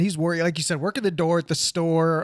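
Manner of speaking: bubbly chat-show host voice; chirpy TV host, all smiles; morning show host. Acted. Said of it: "Something about that tone and fucking energy".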